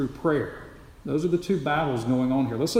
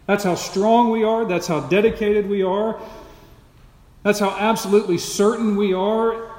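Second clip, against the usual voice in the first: louder, ringing with the disciples' overconfidence; proud mock boast, louder and higher; 4 semitones higher, 4 dB louder than usual. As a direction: swagger through it as the boastful eleven.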